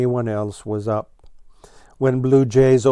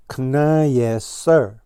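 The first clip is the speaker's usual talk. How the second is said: triumphant shout; 3 semitones higher, 4 dB louder, slower than usual. Acted. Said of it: "shouted Blue Jay triumphantly".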